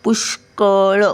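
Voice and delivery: पुष्कळ slowly, a clear sh before कळ; sh sound shown. Shown as a demonstration. Teacher pointing out the sh, पुष्कळ slowly in two parts. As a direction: part पुष्कळ after the sh. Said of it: "शचा उच्चार येतो बघा".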